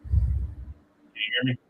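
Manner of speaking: choppy cut off endings; glitchy call audio breaking up; cutting out. Real, not acted. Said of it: "You're cutting out".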